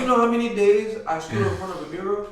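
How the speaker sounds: lightly hammed New York accent; mock New York accent. Shown as a demonstration. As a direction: show off the fake accent. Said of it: "with an accent like this".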